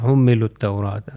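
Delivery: حملوا التوراۃ joined as "hummilut-tawraata"; حملوا التوراۃ without the written waw, alifs and lam; four silent letters. Shown as a demonstration. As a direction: say حملوا التوراۃ as one run, short u into double t. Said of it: "اس کا تلفظ نہیں کیا جا رہا".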